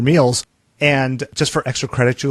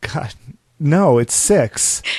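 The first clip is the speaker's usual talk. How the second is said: disappointed, let-down voice. Host correcting the other speaker's wrong trivia answer, disappointed. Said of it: "You sound really disappointed in me".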